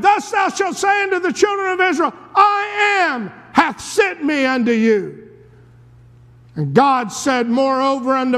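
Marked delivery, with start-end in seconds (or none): 0.0-5.3 higher, fast, proclaiming shout; a raised, commanding voice of God. Retold or imitated. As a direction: thunder it out like God from the bush. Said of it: "And he said".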